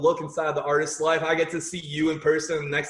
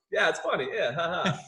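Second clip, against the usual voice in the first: deadpan. Retold or imitated. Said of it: "you can see me just".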